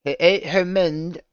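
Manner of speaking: high, slow, loud mocking Alex voice; Alex impression. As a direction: squeal it like a smug parody of Alex. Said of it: "let me say it like Alex would".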